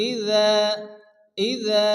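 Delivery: ইযা with the final "aa" held; measured tajweed ইযা, long second vowel; elongated vowel. Shown as a demonstration. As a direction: draw out the end of ইযা one measure. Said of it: "এক আলিফ প্রমাণ টান দিয়ে পড়তে হবে".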